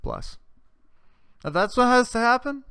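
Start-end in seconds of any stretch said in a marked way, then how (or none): 1.4-2.6 pious church lady. Retold or imitated. Mock pious blessing, rising voice.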